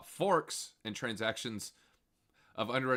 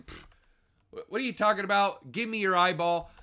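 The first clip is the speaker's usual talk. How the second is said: mock WorldCoin reply; 7 semitones higher, 5 dB louder than usual. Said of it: "They're saying".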